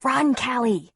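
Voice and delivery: high, loud urgent screech. Acted. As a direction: scream the warning to his sister. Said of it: "Ben screeched".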